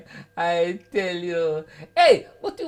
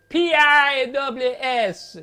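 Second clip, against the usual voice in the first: 1 slow spelled letters; 4 semitones higher, 7 dB louder, much slower than usual. Retold or imitated. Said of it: "him say".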